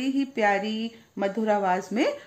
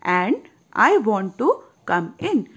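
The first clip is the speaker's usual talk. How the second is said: soft little voice; 4 dB louder, much slower than usual. Acted. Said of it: "says a soft little voice".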